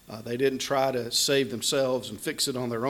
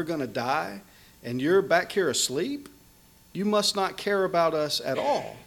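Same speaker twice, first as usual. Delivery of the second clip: accusing rebuke; 3 semitones higher than usual. Retold or imitated. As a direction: build the reproach toward the end. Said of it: "There's rebuke in those words".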